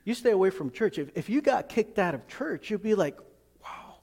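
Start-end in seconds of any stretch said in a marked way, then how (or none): 3.6-4.0 very soft, imagined stunned reaction; stunned hush. Pretend. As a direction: let "wow" out barely audibly, as if stunned. Acts stunned at losing church.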